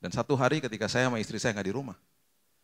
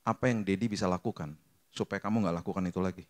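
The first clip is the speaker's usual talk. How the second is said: tender; 3 semitones lower than usual. Retold or imitated. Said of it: "Saya rangkul mereka".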